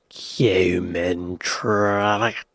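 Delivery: very slow whisper, pitch dropping; drawn-out whisper. Shown as a demonstration. Host repeating the film title, drawn-out whisper. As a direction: stretch the title out in a low whisper.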